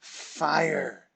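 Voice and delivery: even, unhurried answer; calm one-word reply; evenly. A narrator's reading. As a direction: say it level and composed. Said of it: "Stellan replied evenly".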